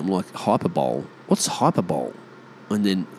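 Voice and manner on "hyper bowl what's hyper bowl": HYPERBOLE misread as HYPER-BOWL; baffled low reading, HYPERBOLE ending like "bowl"; misreading as written. Retold or imitated. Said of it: "saw the word written down and I'm, like, reading it".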